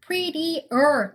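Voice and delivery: "Prettier" with -er sounded as its own syllable; separately pronounced ending. Shown as a demonstration. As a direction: say "Prettier" as pretty, then a distinct er. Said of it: "따로 발음하셔야 돼요". ("Prettier"의 er을 따로 떼어 발음)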